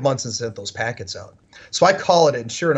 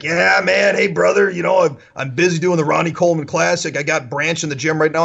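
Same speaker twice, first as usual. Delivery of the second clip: lightly voiced Southern Hulk Hogan; Brian Dobson; 3 semitones higher than usual. Busy gym owner to a caller, lightly imitated Southern wrestler. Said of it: "He sounds like a Southern Hulk Hogan".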